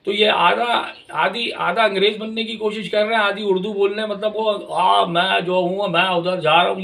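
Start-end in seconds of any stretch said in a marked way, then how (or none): 4.5-6.8 a hint of a mocking elite accent that drags its vowels; mock drawled elite accent. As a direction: stretch the आ and ऊ long in a mocking half-English elite accent. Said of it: "ये इस तरीके का accent अजीब सा".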